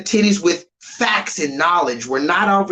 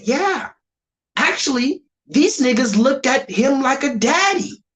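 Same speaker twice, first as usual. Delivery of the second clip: higher, mock-innocent imitation of the woman; mocking her quote; 7 semitones higher than usual. Streamer mimicking the woman from the clip, mock-innocent. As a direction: parody her calm know-it-all claim. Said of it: "She said".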